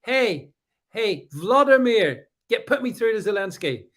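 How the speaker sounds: badly faked Italian phone voice; attempted Italian accent. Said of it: "can't do the accent".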